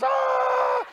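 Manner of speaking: short high yelp of fright; startled high shout at a flying spider; scream of fright. Retold or imitated. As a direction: let out a sudden high scared yell. Spider launched at him.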